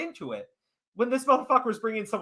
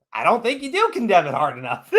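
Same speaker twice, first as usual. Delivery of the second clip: laughing mock; 2 semitones lower than usual. Mocking the accusers, laughing.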